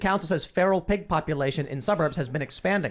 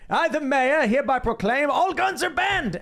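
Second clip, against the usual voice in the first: pompous mayor; 9 semitones higher than usual. Acted. Pitching the movie, the mayor's grand decree. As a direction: proclaim it like a self-important mayor. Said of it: "it starts with them being like".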